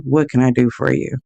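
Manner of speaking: curt and cold. Retold or imitated. The cashier finally reaching her, curt and cold. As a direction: drop all the warmth, clipped service voice.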